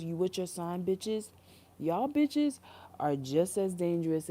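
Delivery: loud, scornful rant building up; mocking rant. Real, not acted. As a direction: call them out with contempt. Ranting at spiritual types.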